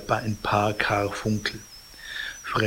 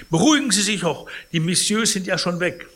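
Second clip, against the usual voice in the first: soothing concierge; 7 semitones higher, faster than usual. Acted. Cibot soothing Pons.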